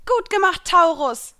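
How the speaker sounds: high, loud, encouraging cheer; motivated call. A narrator's reading. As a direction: cheer your spirit on. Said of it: "rief ich motiviert".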